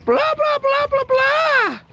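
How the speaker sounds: very high mock wife blah blah, drawn out; squeaky nagging babble, slowing down; high mocking wife going blah blah blah. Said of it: "My darling's most probably sitting there going".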